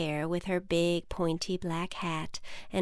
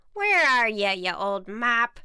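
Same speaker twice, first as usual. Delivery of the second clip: witch calling; 3 semitones higher, 5 dB louder than usual. Acted. Witch calls for broom.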